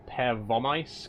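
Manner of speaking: Pervomaisk stressed on the VO; per-VO-maisk; stress on second syllable. Shown as a demonstration. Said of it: "the emphasis is on the, the second syllable".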